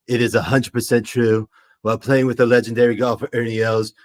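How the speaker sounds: a light first try at Donald Trump, reading the press release; mildly voiced Trump boasting; Trump impression. Streamer reads Trump's golf press release as Trump, lightly voiced. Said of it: "my first ever legitimate try at a Trump impression".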